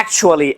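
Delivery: "actually" as "ak-chu-ally". Shown as a demonstration. Teacher giving the right version. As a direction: say "actually" with a ch in the middle. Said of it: "हम कहते हैं".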